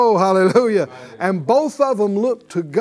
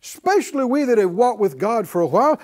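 ordinary talk, nothing marked

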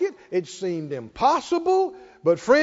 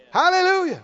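normal talking voice

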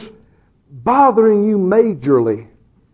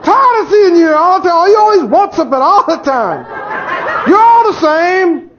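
irritated tirade; 10 semitones higher than usual. Retold or imitated. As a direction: let the annoyance spill over, fed up. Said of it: "But he says".

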